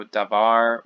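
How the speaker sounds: davar said slowly, stress on the last syllable, da-VAR; Hebrew word davar. Shown as a demonstration. Teacher modeling Hebrew pronunciation for students, slow and clear. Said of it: "some examples here of vowel changes".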